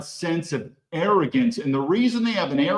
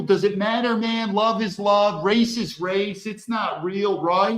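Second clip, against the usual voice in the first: higher-pitched mock of naive people; lightly put-on, higher voice parroting others; mock naive objectors; 4 semitones higher than usual. Commentator parodies people who say race doesn't matter, mocking. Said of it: "to all these people".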